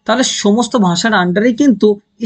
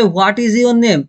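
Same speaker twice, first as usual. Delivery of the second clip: very slow, each word spelled out: "What is your name?"; slow full form; 3 semitones higher, much slower than usual. Shown as a demonstration. Teacher showing students a full English sentence, slow and careful. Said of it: "কেউ যদি বলে".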